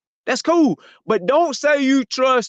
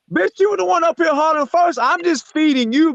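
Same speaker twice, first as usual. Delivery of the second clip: heated retort; 6 semitones higher than usual. Real, not acted. Angry retort after quote.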